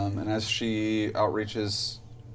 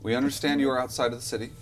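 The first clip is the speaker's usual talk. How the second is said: echoing reverbing voice; faster than usual. A narrator's reading. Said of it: "echoing, reverbing voice".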